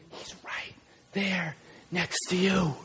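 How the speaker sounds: low, slow, near-whisper; soft and low, leaving space between words; hushed reassurance. Shown as a demonstration. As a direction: bring it right down, intimately. God near, whispering to you.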